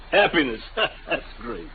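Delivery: scoffing breathy laugh around the words; bitter laugh. Acted. Father mocks the inventor's dream of happiness, bitter laughter. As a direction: laugh at the irony, sour.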